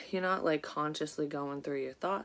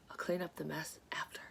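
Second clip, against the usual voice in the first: whispering; 7 dB quieter than usual. Real, not acted. Whispered aside to herself.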